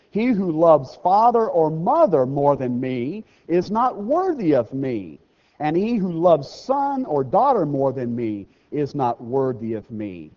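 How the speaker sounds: slow, loud solemn reading; measured preacher's scripture read. Acted. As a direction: proclaim the verse slowly.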